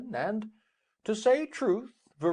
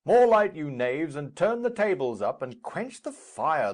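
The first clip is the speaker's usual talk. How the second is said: bossy shout; 5 semitones higher, 6 dB louder than usual. Acted. Capulet orders servants at feast.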